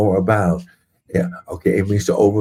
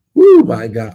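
joyful whoop; 8 dB louder than usual. Real, not acted. Preacher's joyful outburst.

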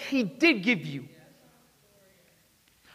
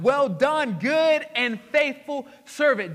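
loud, slow, joyful well done; excited praise; 4 semitones higher, 6 dB louder, much slower than usual. Acted. Master praising his faithful servant, excited and loud. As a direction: hail the servant with delight. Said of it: "That means Jesus was excited".

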